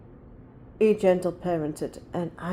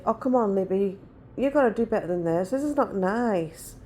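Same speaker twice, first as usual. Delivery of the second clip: soft gentle parent. Retold or imitated. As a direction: coax her softly, no bite at all. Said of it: "You know, like that".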